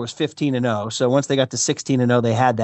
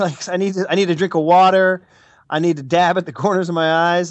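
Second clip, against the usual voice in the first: mock emotional; 3 semitones higher than usual. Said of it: "I'm emotional now".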